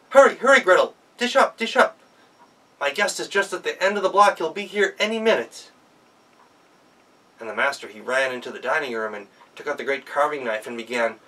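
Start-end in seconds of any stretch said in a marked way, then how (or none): 0.1-5.7 much higher, loud, frantic; frantic hurry. Acted. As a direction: master rushes in, urging Gretel to serve. Master rushes in shouting.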